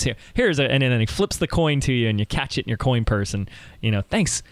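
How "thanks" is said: put-on high, eager little boy voice; grateful kid, pitched way up; young kid voice. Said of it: "there's my voices for this episode".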